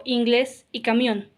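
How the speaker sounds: slow, with "inglés" and "camión" stressed on their final syllables; stress on last syllables. Shown as a demonstration. Teacher giving examples of agudas, final-syllable stress on "inglés" and "camión". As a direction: land on GLÉS in "inglés" and MIÓN in "camión". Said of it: "se acentúa en la última palabra".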